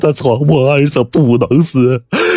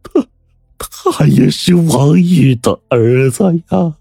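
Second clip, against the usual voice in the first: high, drawn-out wail; desperate plea; 8 semitones higher, slower than usual. A narrator's reading. Squire hastily adds whose son he is, desperately pleading. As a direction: cry it out high, stretching the words in supplication.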